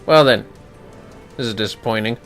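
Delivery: usual speaking voice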